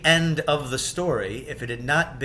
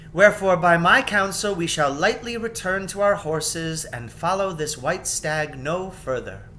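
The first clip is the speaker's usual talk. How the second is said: higher queen giving counsel, louder start; careful advice, slowing at the end; lightly voiced wary queen; cautious Queen Susan; 4 semitones higher, 4 dB louder than usual.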